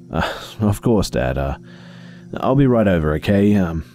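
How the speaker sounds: cheerful daughter. Acted. Sarah voiced.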